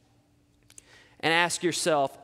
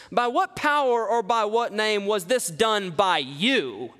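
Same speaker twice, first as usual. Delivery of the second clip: scornful; 4 semitones higher than usual. Shown as a demonstration. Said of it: "This has a scornful taste to it".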